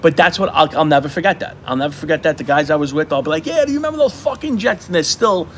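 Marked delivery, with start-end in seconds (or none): 3.5-4.8 retold ribbing. Reminiscing with old friends.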